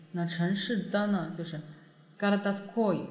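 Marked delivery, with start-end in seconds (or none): 2.2-3.1 городской stressed on the final -ой. Shown as a demonstration. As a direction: model городской with reduced first vowels and a strong -ой. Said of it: "重音在о上面".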